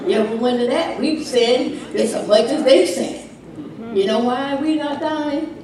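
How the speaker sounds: ordinary talk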